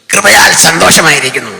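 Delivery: a hint of a booming pastor; mimicking pastor. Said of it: "മിമിക്രിക്കാരൻ്റെ sound പോലെ". (പാസ്റ്ററെ അനുകരിക്കുന്ന ശബ്ദം)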